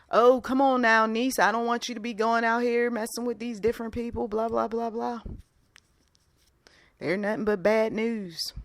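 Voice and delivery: lightly voiced Southern uncle warning his niece; a touch of Southern in a cautioning voice; Southern accent. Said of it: "I used a Southern accent".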